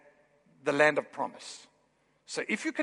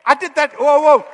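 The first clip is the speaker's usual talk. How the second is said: whoa; 8 semitones higher, 16 dB louder than usual. Real, not acted. Stumbling over hard names.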